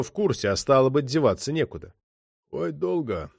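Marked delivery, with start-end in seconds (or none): 2.5-3.3 mock lament. A narrator's reading. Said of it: "засокрушался боцман".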